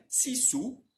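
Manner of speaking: "sisu" com S francês, língua perto dos dentes; S sorridente. Shown as a demonstration. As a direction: diga "sisu" com sorriso largo e S nítido. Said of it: "colocar a língua perto dos dentes". ("sisu" com S bem sorrido)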